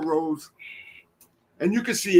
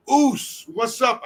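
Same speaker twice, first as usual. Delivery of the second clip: high-pitched, drawn-in hello to a pal; hearty greeting; 5 semitones higher, slower than usual. Retold or imitated. Rikishi greeting his friend in passing, hearty. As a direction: call out to a buddy passing by.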